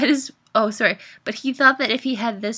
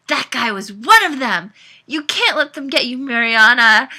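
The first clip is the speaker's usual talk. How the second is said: loud, raised alarmed warning; shouting; 4 semitones higher, 9 dB louder than usual. A narrator's reading. Caleb slamming the table, warning Mariana, shouting. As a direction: warn her at rising volume. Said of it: "he shouted".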